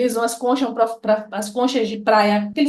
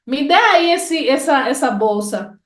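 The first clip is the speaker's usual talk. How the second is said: call without the Ô; slower than usual. Shown as a demonstration. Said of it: "Se eu tirar esse o".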